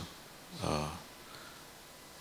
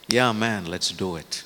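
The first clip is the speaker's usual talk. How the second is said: excited cheer; 4 dB louder than usual. Retold or imitated. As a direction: fire up the crowd with "Yeah, man". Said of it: "they're excited".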